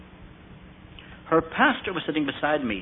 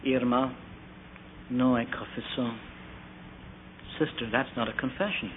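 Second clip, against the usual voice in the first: gently; 8 dB quieter than usual. Retold or imitated. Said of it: "I said to her gently".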